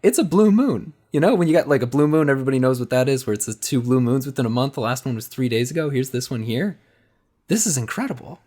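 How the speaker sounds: high, loud wide-eyed gushing; awed wonder. Acted. Chris gazing at the blue moon, awed and gushing to Rhett. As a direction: marvel up at the moon like a starstruck tourist.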